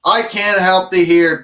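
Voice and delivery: high, tinny pull-string doll voice; like a talking doll when the string is pulled; pull string toy. Pretend. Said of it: "My voice doesn't sound right when you pull the string".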